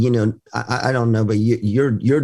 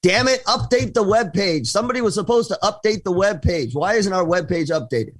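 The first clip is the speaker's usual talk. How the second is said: mock angry yelling; 5 semitones higher than usual. Someone in the company yelling about the webpage, mock angry. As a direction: imitate someone fed up, yelling about a chore. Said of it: "and when someone yelling".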